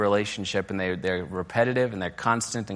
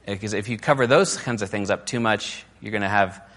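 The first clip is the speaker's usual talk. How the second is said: ordinary delivery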